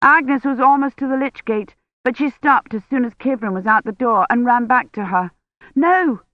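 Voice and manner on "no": high, loud no; shouted. A narrator's reading. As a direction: yell to stop her coming back. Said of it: "Kivrin shouted".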